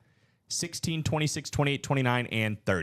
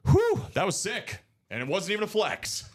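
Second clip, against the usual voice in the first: excited; 10 semitones higher, 3 dB louder than usual. Real, not acted. Hyped after a big pull.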